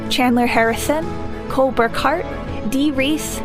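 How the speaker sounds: ordinary delivery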